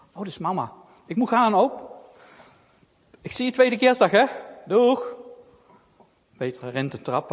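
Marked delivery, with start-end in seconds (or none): 1.1-5.2 put-on cheerful girl goodbye. Child says goodbye.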